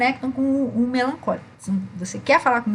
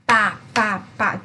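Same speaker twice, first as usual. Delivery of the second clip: forceful gesture beats. Shown as a demonstration. Teacher marks strong vertical gestures for the choleric with punchy beats. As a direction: chop the syllables out hard and short. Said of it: "ou na vertical".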